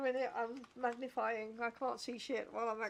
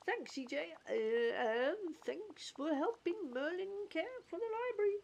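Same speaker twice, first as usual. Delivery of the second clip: grateful goofy cartoon voice, pitched up; 6 semitones higher than usual. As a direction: thank them in a cartoon accent. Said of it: "goofy accent".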